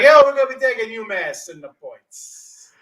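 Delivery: loud, slow New Jersey tough-guy voice; a hammed-up Jersey guy calling a pick; Jersey accent. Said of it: "I'll just say it in the Jersey accent".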